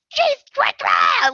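high-pitched startled screech; retold yell. Woman startled by friend in the doorway, retold yell. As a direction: re-enact a yelp of fright. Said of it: "like, yell".

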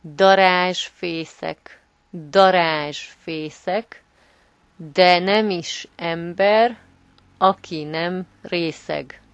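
slow and clear, every syllable spelled out; slow teaching read. Shown as a demonstration. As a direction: say it slowly so learners can follow. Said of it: "can you repeat it for our listeners".

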